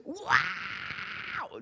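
mock wailing scream, held back; half-voiced drawn-out shriek; imitated scream. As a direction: imitate a woman's long scream. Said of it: "Just screamed".

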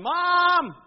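high, loud drawn-out holler; full-volume kid's yell; yelling for Mom. Acted. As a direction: call through the house like a kid after Mom. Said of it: "and he's yelling".

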